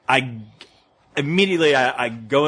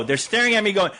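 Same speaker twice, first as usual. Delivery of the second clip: usual speaking voice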